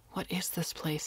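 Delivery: softly, almost under the breath; gentle question. Acted. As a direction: ask kindly, not to startle her. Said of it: "he asked gently".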